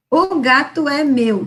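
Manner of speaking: O gato é meu read slowly, word by word; slow child reading. Shown as a demonstration. Teacher imitating a child reading word by word, slow. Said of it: "três letras".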